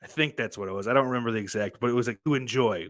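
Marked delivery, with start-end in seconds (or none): 2.2-2.9 "to enjoy" leaned on with a falling tune; stress on to enjoy. Shown as a demonstration. Pointing out the key phrase in the question, "to enjoy" stressed. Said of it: "the fucking key phrase there".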